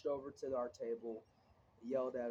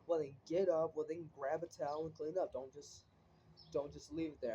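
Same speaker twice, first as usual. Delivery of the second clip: mock bossy teacher; 3 semitones higher than usual. Teacher ordering the student to clean up, mock sharp tone. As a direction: snap the orders like an annoyed teacher. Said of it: "she got a big fucking tone".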